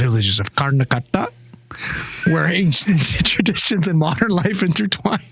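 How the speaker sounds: playful put-on Indian accent on the story; spiced-up accent. Friends egg him on, playful Indian accent. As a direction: lean into the Indian lilt, laughing partway. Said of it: "get it in there".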